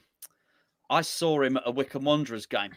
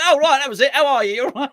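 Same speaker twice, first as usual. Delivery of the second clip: retold effusive greeting; 11 semitones higher, 9 dB louder than usual. Retold polite feigned interest greeting.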